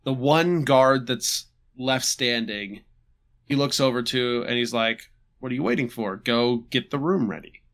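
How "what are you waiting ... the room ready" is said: offhand, unbothered order; imitating a coolly indifferent boss; nonchalant. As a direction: toss it off casually, as if unmoved. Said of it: "Super nonchalant".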